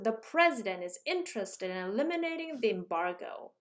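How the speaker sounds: "president", "interested", "eliminating" and "embargo" each hit hard, the other syllables rushed between them, said slowly; stress-timed rhythm. Shown as a demonstration. Teacher shows students the four beats in "president", "interested", "eliminating", "embargo", slow and rhythmic. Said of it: "With four stress syllables out of eighteen".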